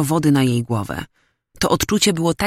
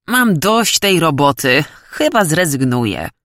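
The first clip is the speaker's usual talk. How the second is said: note of anger. Acted. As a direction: let slight annoyance into it. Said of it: "w jego głosie zabrzmiała nuta złości".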